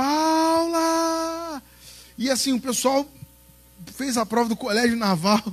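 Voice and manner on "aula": sustained high mimicked call; imitated teacher's call. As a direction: stretch it out like a teacher calling class. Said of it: "Ele ficava".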